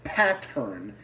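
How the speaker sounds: Boston pattern with the R dropped; Boston accent. Shown as a demonstration. Self-mocking his own Boston accent, Boston R dropped. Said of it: "my Boston accent".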